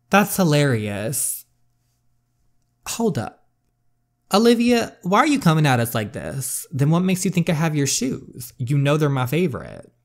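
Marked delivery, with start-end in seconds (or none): 2.9-6.6 much higher, louder calling out her name; calling Olivia out sharply; indignant call. Acted. Sister confronts Olivia barging in, indignant loud call.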